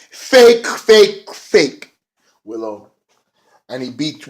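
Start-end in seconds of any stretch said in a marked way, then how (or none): 0.1-2.9 higher, louder mocking yells of fake, fading.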